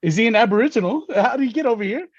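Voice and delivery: high, quick mock Australian questioning; puzzled strangers in a high put-on Aussie accent. Australians puzzling over the brown man, high imitated Australian accent. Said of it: "an Australian accent".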